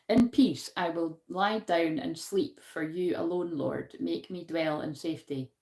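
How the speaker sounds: measured scripture reading; reading scripture aloud. Acted. Reading a card's verse to viewers, measured. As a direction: read the verse out with care.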